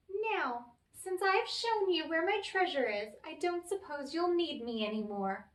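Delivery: high little leprechaun voice. Acted. The leprechaun asks Tom to release him, sly high voice.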